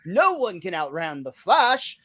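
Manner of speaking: a slow, mock heroic boast; bold proclamation. Host quoting comic book guy's bold heroic boast. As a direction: proclaim it like a mock superhero, drawn out. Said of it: "boldly proclaims".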